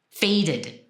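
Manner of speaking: FADED in two clear syllables; carefully sounded "Faded"; vowel between Ds. Shown as a demonstration. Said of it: "without having a vowel in between".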